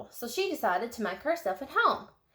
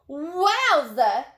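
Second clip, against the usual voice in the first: bright gasped exclamation, louder; gasped wowza; 6 semitones higher, 6 dB louder than usual. A narrator's reading. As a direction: let it burst out in surprise. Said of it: "Daisy Locks gasped".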